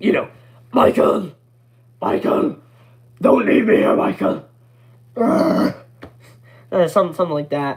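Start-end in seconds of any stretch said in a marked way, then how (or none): 0.7-4.5 put-on British accent voice. Showing off an impression to a listener, William Afton voice. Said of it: "I can do a pretty good William Afton voice".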